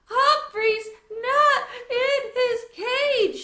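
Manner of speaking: high, slow, sobbing wail; between sobs. Acted. Girl tells father the hamster is missing, sobbing. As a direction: sob the words out. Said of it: "she said in between sobs".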